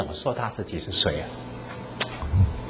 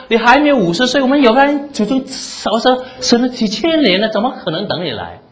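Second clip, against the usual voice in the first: indignant Jews; 8 semitones higher than usual. Retold or imitated. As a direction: throw the question back at him in outrage. Pastor voices the angry Jews.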